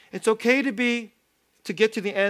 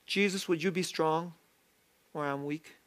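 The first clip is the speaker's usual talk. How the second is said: soft plea; 3 semitones lower, 7 dB quieter than usual. Pretend. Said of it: "'Cause, but we will".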